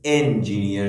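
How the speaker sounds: انجینیر said with a clear opening e sound; first sound shown. Shown as a demonstration. Teacher showing students the first sound of انجینیر. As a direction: open انجینیر on a plain short e. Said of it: "صدای اولش چیه؟".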